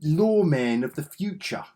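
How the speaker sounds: mock movie-trailer read; hammed-up title voice. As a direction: boom it out like a trailer voice. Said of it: "Don't know why I said it like that".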